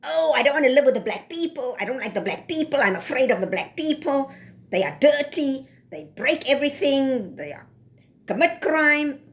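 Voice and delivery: quick, sneering mock of a fearful complainer; mocking imitation. Mocking whites who fear black neighbours, quick snide mock voice. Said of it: "But then you are also".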